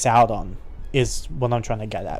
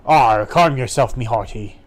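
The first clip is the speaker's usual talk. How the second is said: a hint of calming sea dog; lightly voiced pirate. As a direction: draw out a pirate "arr". Pirate calms his mate.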